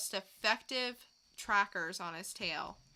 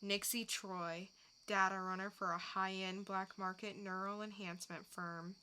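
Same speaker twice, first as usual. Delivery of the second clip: quiet inner narration; 6 dB quieter than usual. Acted. Corinne sizing up her target in a soft voiceover. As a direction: murmur it like a noir voiceover. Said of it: "dramatic reading".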